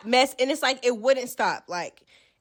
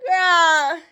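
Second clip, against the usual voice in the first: laughing exclamation; 4 semitones higher, 6 dB louder than usual. Real, not acted. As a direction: laugh it out in disbelief. Exasperated laugh at drama.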